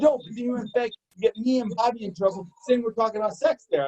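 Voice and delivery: high-pitched imitated complaint; high, mock-exasperated objection; retold accusing protest. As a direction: argue back as the aggrieved coworker. Retelling coworker's accusation.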